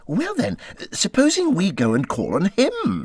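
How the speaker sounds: high, eager little Mole voice; a small creature pitching a hopeful idea. Acted. Mole pleading with Rat to invite Badger, high and eager.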